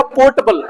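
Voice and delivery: "पोर्टेबल" without the R, as "po-ta-bal"; potable, R silent. Shown as a demonstration. Teacher introduces a related word, saying "पोर्टेबल" without R, "po-ta-bal". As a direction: leave the R out of "पोर्टेबल": "po-tuh-bal". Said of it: "ये आर silent रहेगी".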